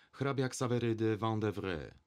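usual speaking voice

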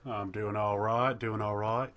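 put-on slow Australian-or-Old-West accent; muddled drawled accent. Cohost greets the hosts in a slow, muddled Australian-or-Old-West accent. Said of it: "Was that Australian or was that Old West".

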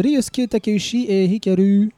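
a playful hint of a Japanese accent on the author names; light Japanese accent. Shown as a demonstration. Host announcing the authors in a light Japanese accent. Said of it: "J'aime bien mon petit accent japonais".

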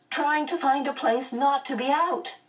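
put-on high, plaintive girl; worried, high-pitched protest; wailing. A narrator's reading. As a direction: keep the wail high to the end. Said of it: "Meg wailed".

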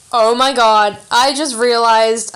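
surprised. Real, not acted. Sudden realization mid-video.

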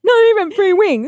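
high, loud, laughing whine; whiny victim voice. Retold or imitated. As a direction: complain pitifully, half laughing. Mock plaintiff complaint.

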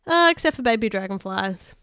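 loud flat line without a giggle; wrong take. Shown as a demonstration. Narrator's first take before correcting herself, loud and straight. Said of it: "I kinda made that sound wrong".

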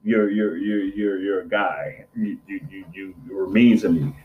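low, stammering dog voice; mock-grumble as an offended dog; voiced sulky dog. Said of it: "she looking at me like".

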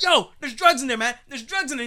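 talking animal. Pretend. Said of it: "The dog's like".

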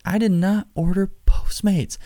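high, breathy-sounding mock girlfriend, half whispered. Girlfriend quoted on phone call.

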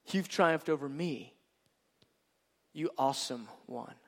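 soft, hushed confession; overwhelmed. Acted. God to his bride, hushed and overwhelmed. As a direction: say it softly, undone. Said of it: "that he says".

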